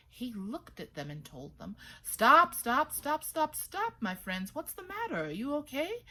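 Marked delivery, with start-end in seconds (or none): 2.0-6.0 high calls to stop; high urgent stop calls; calling out. A narrator's reading. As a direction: halt the runners. Bather calls out.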